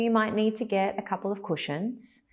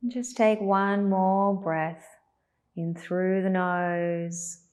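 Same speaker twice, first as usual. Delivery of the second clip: guided meditation. Acted. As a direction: guide them gently through each breath.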